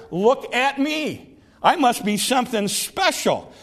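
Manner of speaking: acted swagger of a man impressed with himself; swell-headed pride. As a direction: draw it out, full of yourself. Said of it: "he got a little swelled head".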